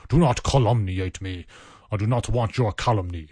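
put-on a light, half-hearted Scottish Sean Connery accent; barely Scottish, mock Sean Connery. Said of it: "I can't do a Sean Connery accent".

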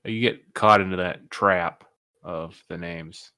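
slow sentence with weight on "trap"; drawn-out emphasis on "trap"; stress on TRAP. Real, not acted. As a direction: lean on the word "trap". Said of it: "Emphasis on trap".

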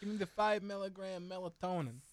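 mock New Jersey pharmacy order; New Jersey accent. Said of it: "New Jersey accent".

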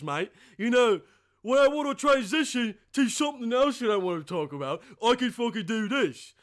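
mock Australian accent. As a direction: put on a jokey Aussie accent. Segues punctuated with "mate.

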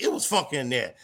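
low deadpan "It was funky in there"; flat setup line, "funky" said low and plain. Retold or imitated. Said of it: "it was just the way he said it".

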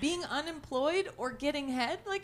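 excited. Retold or imitated. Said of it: "But I was like".

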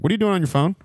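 suspicious driver. Retold or imitated. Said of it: "he's like".

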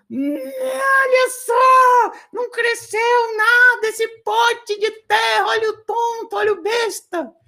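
high, mocking kids jeering at the boy. Kids jeer at Eduardo's empty pot, high and mocking. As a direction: taunt him like a mean schoolyard crowd.

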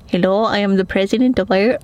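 half-hearted go at a president; quick, tentative impression; lightly voiced statesman; Michael D Higgins. Shown as a demonstration. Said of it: "trying to even think what he sounds like".

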